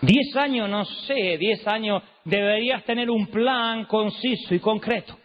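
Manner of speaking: a hint of the old preacher's lifted tone, unhurried; Motesi imitation. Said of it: "tiene como el último tono".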